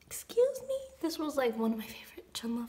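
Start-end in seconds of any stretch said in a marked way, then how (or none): 0.1-0.8 high breathy disbelieving excuse me; stunned whisper. Real, not acted. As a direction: gasp it out in awe. Stunned by a photo.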